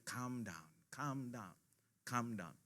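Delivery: soft, gentle "calm down" repeated; soft soothing voice. Retold or imitated. Preacher voicing the Holy Spirit calming an angry believer, softly. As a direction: hush it like a soothing inner voice. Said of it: "Padahal tuh Roh Kudus lagi".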